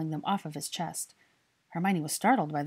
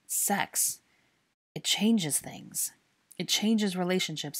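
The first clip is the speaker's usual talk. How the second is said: uncomfortable; 2 semitones higher, slower than usual. Acted. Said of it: "uncomfortably struggled to use the word".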